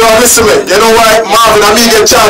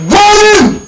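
hype call; 8 semitones higher than usual. Acted. Deejay shouts a hype call.

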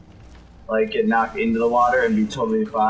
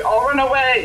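high panicked yelp; mock fleeing creature; 12 semitones higher, 4 dB louder than usual. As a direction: squeal it as the scared monster. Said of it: "He's like".

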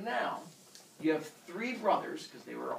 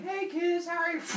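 high, loud, carefree greeting; cheery Father Sky; 6 dB louder than usual. Acted. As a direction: call down to the kids, blithely cheerful. Father Sky greets kids obliviously.

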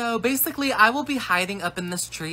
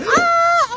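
sudden high piercing shriek of fright; 7 dB louder than usual. Acted. Girl shrieks as a classmate threatens her with a shoe. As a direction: scream as the shoe comes at you.

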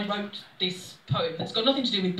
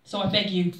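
measured poetry reading with weight on key lines; poem recitation; 3 dB louder than usual. Acted. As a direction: recite it like a spoken-word performance. Recites her own poem.

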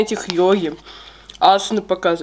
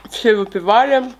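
talking between chews; muffled by food in mouth; mouth full, chewing; slower than usual. Real, not acted. Seen 4: Bite at -2; cheeks bulge and chew through early words.

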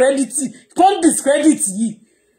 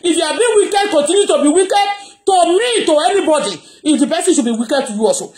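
normal talking voice

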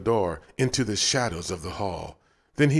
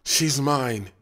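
put-on possessive child; 6 semitones higher, 4 dB louder than usual. A narrator's reading. Possessive boy threatens.

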